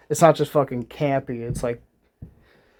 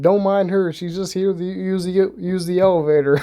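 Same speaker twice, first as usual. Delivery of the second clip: mock hero quip; 5 semitones higher than usual. Spider-Man quips to strangers.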